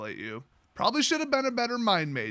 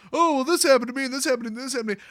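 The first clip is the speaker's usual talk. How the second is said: higher-pitched mock whine; mock complaining; 5 semitones higher, 3 dB louder, much faster than usual. Imitating a friend complaining about a situation, mock whining. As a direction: reel off troubles like a complainer.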